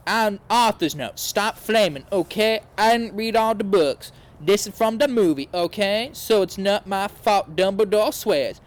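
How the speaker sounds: huffy author snapping at critics; whiny author's note. Acted. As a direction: read it like a touchy teen author. Reads the defensive author's note.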